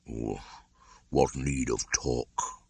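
put-on slow, weary old bear; drawn-out and tired; slowly. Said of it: "said Baloo slowly".

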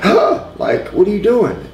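high, shocked outrage from a gasp; gasping, indignant what are you doing; upset shocked gasp. Retold or imitated. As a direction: play her stunned and offended. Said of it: "She was upset".

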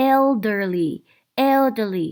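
put-on "elderly" said carefully for learners; pronunciation model. Shown as a demonstration. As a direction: model the word "elderly" clearly. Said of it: "การออกเสียง".

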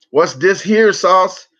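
What's this here sauce, laughing, drawn out slow; slow laughing mock version; laughing mispronunciation. Shown as a demonstration. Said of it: "It's Worcestershire sauce".

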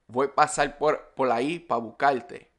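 Puerto Rican accent, "para" cut to pa; Puerto Rican Spanish. Shown as a demonstration. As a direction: Puerto Rican, "buscarte" as bucalte. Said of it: "how it might sound in Puerto Rican Spanish".

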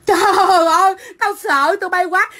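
sarcastic pretend fright; mock fear. Livestreamer taunts online threateners, mock fear. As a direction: feign being scared with a drawn-out wail.

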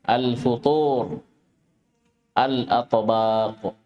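careful, drawn-out word-by-word model; model pronunciation. Shown as a demonstration. Teacher models words for listening students, careful and drawn out. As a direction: say each word slowly with long vowels. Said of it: "Istami'u jayidan".

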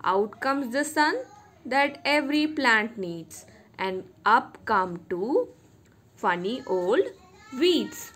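measured recital, pausing between lines; teacher's careful verse recitation; poem recitation. Shown as a demonstration. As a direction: recite it line by line for young pupils. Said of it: "I will recite the poem once again".

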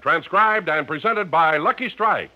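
upbeat commercial announcer read; radio sponsor pitch. Acted. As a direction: sell the cigarette brightly.

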